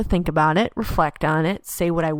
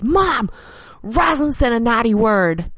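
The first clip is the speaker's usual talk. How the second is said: put-on tattling child; 4 semitones higher than usual. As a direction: call it out like a tattling kid. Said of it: "Ivy screams out".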